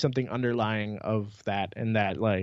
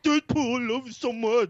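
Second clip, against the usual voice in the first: high, gushing nerd voice; 10 semitones higher than usual. Retold or imitated. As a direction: gush like a starstruck fanboy. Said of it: "my impression of a nerd".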